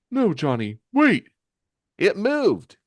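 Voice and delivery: high cry to stop, jumping up; high, loud, urgent plea; urgent warning. Acted. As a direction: call out in alarm to a teammate. Teammate stops Johnny's attack.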